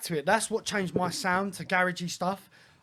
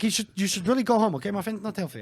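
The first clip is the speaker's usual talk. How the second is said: put-on Dutch accent; 3 semitones higher, faster than usual.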